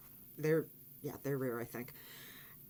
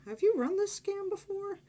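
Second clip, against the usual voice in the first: higher, disbelieving question; incredulous aside; 13 semitones higher than usual. Retold or imitated. Narrator silently questioning the woman about a scam. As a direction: say it like you can't believe it.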